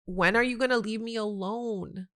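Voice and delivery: exasperated. Retold or imitated. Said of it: "leaned back and rolled her eyes".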